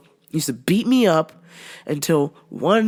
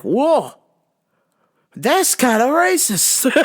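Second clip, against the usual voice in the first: mock surprise; 7 semitones higher, much slower than usual. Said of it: "I'm like".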